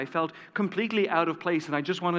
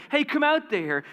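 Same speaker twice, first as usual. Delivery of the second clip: calls out, much higher, to the back room; shouting; 10 semitones higher than usual. Retold or imitated. Diner owner calling his wife out of the kitchen, shouting. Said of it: "He shouted".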